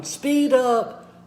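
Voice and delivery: high, lively SPEED UP; speed up cadence. Shown as a demonstration. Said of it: "you need to use your cadence".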